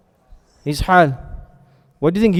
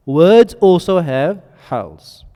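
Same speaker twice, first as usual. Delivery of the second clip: slow emphasis; much slower than usual. Real, not acted. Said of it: "Why did I mention".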